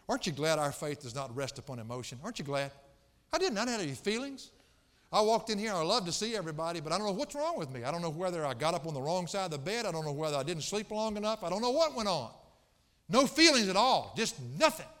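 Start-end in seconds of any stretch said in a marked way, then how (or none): 3.3-14.9 raised, emphatic pulpit confession; higher, driving sermon voice; animated preaching. Real, not acted. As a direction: preach it exasperated, building to a loud finish.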